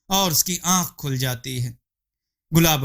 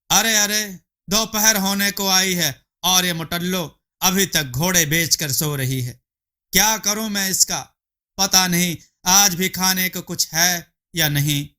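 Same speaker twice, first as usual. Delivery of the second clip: a lightly raised, grumbling husband voice; husband grumbling about his sleeping wife, lightly higher; 4 semitones higher than usual. Acted. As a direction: mutter complaints about the lazy wife, a bit higher.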